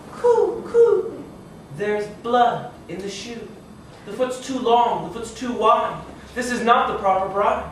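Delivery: high cooing, then slow sing-song warning; cooing doves. Acted. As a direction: call it out like a dove.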